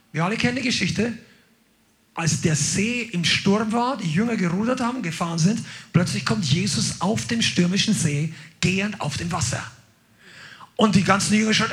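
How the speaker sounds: ordinary delivery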